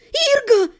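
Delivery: high, wailing call; desperate yell. A narrator's reading. Captive heroine spotting her husband, desperate yell. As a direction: cry his name out high. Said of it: "завопила я".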